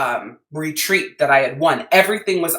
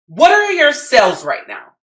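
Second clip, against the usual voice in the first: higher, louder lightly voiced mentor, brisk question; mentor asking; 7 semitones higher, 5 dB louder than usual. Mentor on the phone quizzes the crying saleswoman, lightly voiced higher. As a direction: mentor cutting straight to the numbers, pitched up. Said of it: "And she goes".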